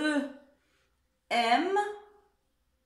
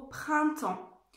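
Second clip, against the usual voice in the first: printemps said very slowly, syllable by syllable; slow dictation voice for a child; dictation pace; 3 semitones higher than usual. Shown as a demonstration. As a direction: spell it out with your voice, slowly. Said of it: "essayer d'écrire le mot".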